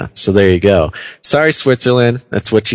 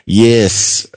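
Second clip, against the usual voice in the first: bad attempt at a Swiss accent; badly faked Swiss accent; terrible Swiss accent. Host mimics someone from Switzerland, bad Swiss accent. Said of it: "That was a terrible attempt".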